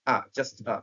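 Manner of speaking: "আ" as a short weak uh, unstressed; reduced article a. Shown as a demonstration. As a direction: say "আ" quick and weak, no full ay. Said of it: "শুধু".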